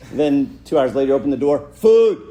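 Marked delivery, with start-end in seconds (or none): 1.7-2.2 loud, high laughing shout; shouted demand with a laugh; barked order. Retold or imitated. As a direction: bellow the demand through the door. Kid barking order through door.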